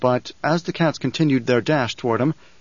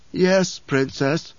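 mocking; 3 semitones higher, much slower than usual. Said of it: "Don't mock me".

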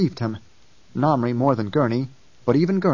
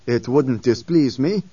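cold slow; slower than usual. A narrator's reading. Namri cold reply.

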